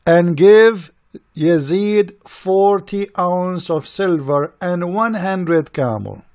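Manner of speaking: lightly voiced slow, drawn-out decree; a hint of a lordly order, slowly; mock Prophet's command. Mocking the Prophet paying Yazid, slow light decree. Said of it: "he said to Bilal".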